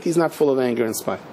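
imitated rabbi gently contradicting; calm correction. Rabbi's calm answer to the complaint.

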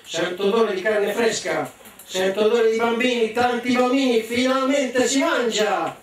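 booming greedy ogre, slowing on the last words; ogre's roar. Acted. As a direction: play the hungry ogre roaring. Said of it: "si alzò in piedi e gridò".

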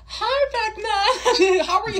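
high, loud, very slow sugary hello; sweet greeting. Acted. Girl greets the monster Vecna in a sugary, slow, high hello. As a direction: coo at him like he's harmless.

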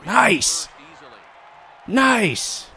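squealed high nice; high excited cheer. Real, not acted. Cheering a play.

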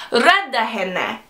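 "Rädda henne" said slowly with an e in the first syllable; correct Swedish line. Shown as a demonstration. Student showing the Swedish line, "Rädda henne" slow with an e vowel. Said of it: "Which in Swedish, that's".

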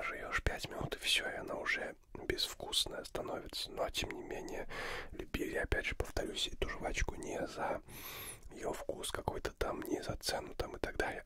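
ordinary talk

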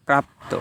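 প্রাপ্ত ending in a full "o", prap-to; correct pronunciation. Shown as a demonstration. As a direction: sound the final "o" of প্রাপ্ত. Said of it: "এটার উচ্চারণ হবে প্রাপ্ত".

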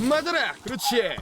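high-pitched attack call; battle cry. Real, not acted. Gamer throwing at a monster, high excited cry.

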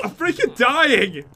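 stretched, loud wail of dying; panicked yell. Real, not acted. Player losing the fight yells slowly in panic to friend.

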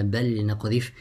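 بل with a clear ل before نقذف; izhar. Shown as a demonstration. Teacher gives students the noon example, izhar. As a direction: keep ل and ن apart in بل نقذف. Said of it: "recite the lam with إظهار".

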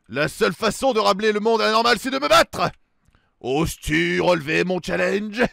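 a hint of a grand villain; booming echoing villain monologue. Villain issues his challenge.

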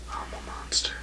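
breathy whisper, barely audible; menacing whisper. Acted. Wrestler whispering a threat to Painkiller, menacing whisper. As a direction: hiss it like a secret threat.

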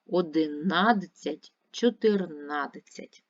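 Одинадцять and чотирнадцять slow, stress on НА. Shown as a demonstration. Teacher to pupils, slow stress on the syllable НА. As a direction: lean on the НА syllable, drawn out. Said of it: "треба наголошувати на склад, на голосний А".

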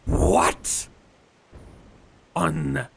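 breathy whispered shock; stunned whisper. Real, not acted. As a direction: gasp it out in disbelief. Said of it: "Sorry, panicking".

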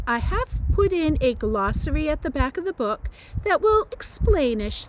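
put-on animated read-aloud of a teenager's letter; chatty teen narration. A narrator's reading. British teen writing to American readers, animated read-aloud. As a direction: read it as a chatty, lightly indignant note. Reads Georgia's note aloud.

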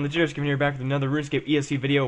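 hurried video introduction; rushed intro. Real, not acted. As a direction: rattle off the channel intro quickly. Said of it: "I said that so fast".

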